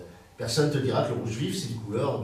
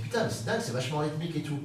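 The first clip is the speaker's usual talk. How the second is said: amazed discovery; 3 semitones higher, faster than usual. Acted. Listener discovering slam's rhythm, amazed. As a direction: pitch it up as a sudden realisation.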